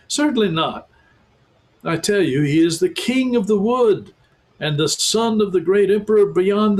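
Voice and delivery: high, firm beaver voice; stern talking beaver. A narrator's reading. Beaver insisting Aslan is the lion, high and firm. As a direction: set the children straight.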